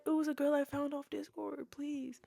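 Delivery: high, pleading imitation of boyfriend; retold argument at restrained volume; mock yelling. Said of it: "we're yelling at each other".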